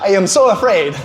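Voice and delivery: a hint of a scared sweet father confiding; mock-timid dad, rising to a high cry at the end; nice dad. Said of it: "lean into me and be like".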